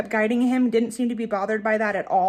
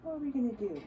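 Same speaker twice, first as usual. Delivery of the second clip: soft, high cooing to the hedgehogs; pet baby talk; 5 semitones higher, 12 dB quieter than usual. Acted. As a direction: coo gently at the pets like talking to a baby.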